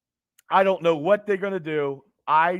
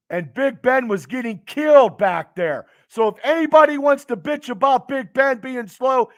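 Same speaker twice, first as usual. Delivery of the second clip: louder, higher fed-up fan ranting; angry rant; 3 semitones higher, 5 dB louder than usual. Real, not acted. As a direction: vent at the doubters with real heat. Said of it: "I'm a little bit pissed off right now".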